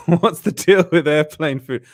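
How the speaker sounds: lightly done comic impression, slow; a hint of a stand-up's voice, drawn out; Jerry Seinfeld. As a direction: ease into the comedian's setup slowly. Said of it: "I love doing that voice".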